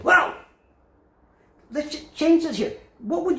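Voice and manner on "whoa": startled yelp. Acted. Turkey yelps at roasting.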